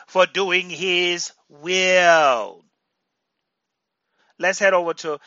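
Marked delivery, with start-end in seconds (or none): 0.1-2.6 louder, slow and stressed; slow emphatic. Real, not acted. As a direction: drive home for doing his will. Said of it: "hear me".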